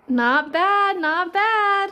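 dry, sarcastic praise. Real, not acted. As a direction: say it like you don't mean it. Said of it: "I can hear the sarcasm in your voice".

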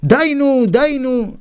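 high, rousing table chant; mock group shout; shouting in chorus. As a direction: call it out like a merry crowd. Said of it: "וכולם צועקים".

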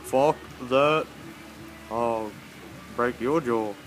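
loud low menacing threat; angry threat. Acted. Dubbed threat.

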